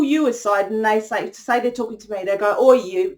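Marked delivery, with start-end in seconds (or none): 2.6-3.1 blunt, louder summons; rough imagined council voice. Retold or imitated. Council pulling her aside for a warning, rough and blunt. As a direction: call someone out roughly, informally. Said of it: "They don't speak like that".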